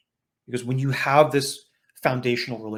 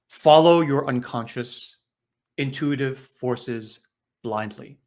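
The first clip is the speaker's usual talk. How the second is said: slow reading aloud. Shown as a demonstration. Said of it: "and I'll just read this".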